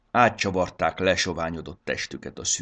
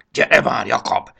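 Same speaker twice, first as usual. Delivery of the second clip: urgent hiss; 6 semitones higher, 11 dB louder than usual. A narrator's reading. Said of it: "sziszegte Triceps".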